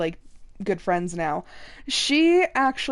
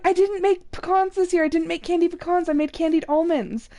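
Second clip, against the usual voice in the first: high, eager imitation of a thrilled friend; excited friend; 6 semitones higher than usual. Coworker's wife excitedly tells her about the switched recipe. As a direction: squeal it like you can't wait to share. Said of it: "she got really excited".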